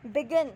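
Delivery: बिगिन with the stress on its final syllable; stress on last syllable. Shown as a demonstration. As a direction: say बिगिन, leaning on the ending "गिन". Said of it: "last में stress आ रहा है".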